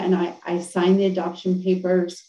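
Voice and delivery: shaky, emotional voice; voice quivering. Real, not acted. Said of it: "it still makes my voice quiver".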